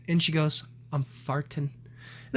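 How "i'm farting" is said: put-on soft, frail old woman's voice; a hint of a weak old great-grandmother; deadpan little confession. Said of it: "her voice is very breathy and shaky".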